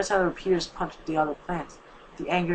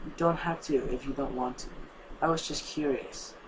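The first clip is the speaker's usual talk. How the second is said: gentle and soft, backing off kindly; a soft reassuring voice; softly; 2 semitones lower, 6 dB quieter than usual. Acted. Telling her friend she need not explain, softly. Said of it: "said softly".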